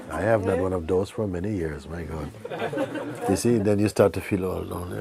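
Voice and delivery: talking while chuckling at himself; laughing through words. Real, not acted. Teacher joking about having no partner, laughing.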